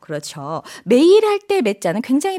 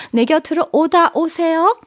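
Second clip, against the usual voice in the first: gentle invitation; 5 semitones higher than usual. Shown as a demonstration. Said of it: "부드럽게 올려주면 되죠".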